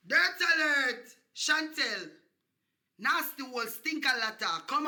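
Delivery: loud announcing dirt alert; alarm call. Acted. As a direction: bark it like a siren warning. Mock roll call alarm.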